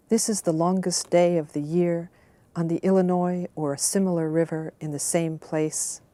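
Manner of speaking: measured, deliberate reading of a poem; poetry reading. Acted. Reader sharing her favorite childhood poem, in an unhurried poetry-reading voice. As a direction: let each line land like a recited verse.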